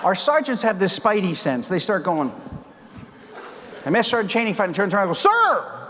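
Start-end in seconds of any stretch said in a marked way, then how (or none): 5.2-5.9 called out sir. Retold or imitated. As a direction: bark it across the room. Sergeant spins round calling colonel.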